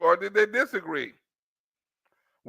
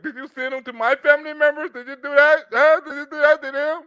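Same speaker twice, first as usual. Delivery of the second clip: mock interrogation; 5 semitones higher than usual. Comic interrogation echoing the host.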